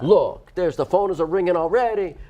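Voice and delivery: a lighter Italian pizza man lilt; pizza man accent. Acted. Host telling listeners Kip takes orders, light Italian accent. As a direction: keep a touch of the Italian accent. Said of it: "which means an accent".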